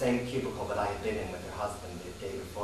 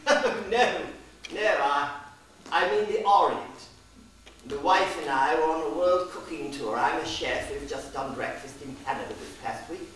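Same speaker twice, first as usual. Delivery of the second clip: British tourist; 3 semitones higher than usual. Retold or imitated. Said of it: "He laughed and he said".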